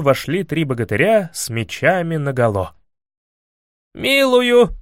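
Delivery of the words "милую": high, loud frightened pardon; loud yell. A narrator's reading. Prince facing armed heroes, yelling his pardon. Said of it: "завопил князь".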